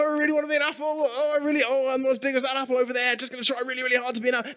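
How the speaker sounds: a worried apple on the tree, squeaky and straining; anxious apple voice. Pretend. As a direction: play a fretful apple trying hard to grow. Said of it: "an apple doesn't hang on the tree going".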